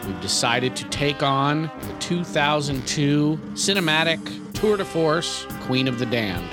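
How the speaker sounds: scripted show-opener read over music; podcast announcer intro. Acted. Host welcoming listeners and introducing co-hosts, announcer style. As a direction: welcome listeners with a measured host's flourish.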